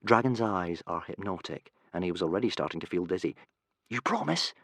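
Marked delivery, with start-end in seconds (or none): 3.9-4.5 whispered. A narrator's reading. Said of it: "whispered Hiccup".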